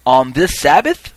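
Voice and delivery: loud, slow questioning call. Retold or imitated. Reaper asking the witnesses on Sabbath, calling out. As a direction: project it to a crowd, rising.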